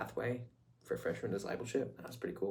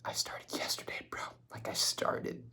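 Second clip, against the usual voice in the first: hushed, half-whispered brag; secret whisper. Retold or imitated. Telling a neighbor he started yesterday, in a secret whisper. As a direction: whisper it like a secret you can't share. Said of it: "secretly, I'm like".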